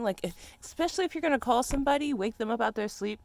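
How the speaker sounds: loud, high rising complaint; heated rant. Real, not acted. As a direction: build it up into a fired-up rant. Heated rant about being called.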